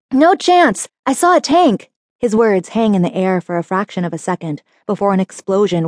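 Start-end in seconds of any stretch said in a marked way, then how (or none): 0.1-1.9 high, loud retort; shouting back. A narrator's reading. Driver shouting back at the passenger mid-battle. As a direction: shout it over the explosions.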